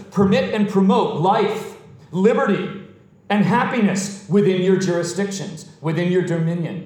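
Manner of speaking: emphatic sermon list, each item set apart; forceful preaching. Real, not acted. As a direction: proclaim each right to the congregation.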